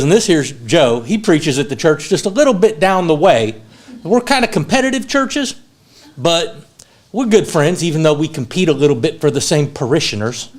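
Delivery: folksy Southern preacher, imitated; Southern accent. Preacher introducing his friend Joe at breakfast, imitated Southern accent. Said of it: "Guy says in a very deep Southern accent".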